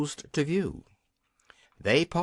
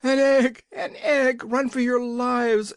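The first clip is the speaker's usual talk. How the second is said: high, loud cry of alarm; panicked yell, pitched way up; horrified shout; 10 semitones higher, 5 dB louder than usual. A narrator's reading. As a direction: shout a terrified warning to the troops. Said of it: "shouted the captain of the gnomes in a voice of horror".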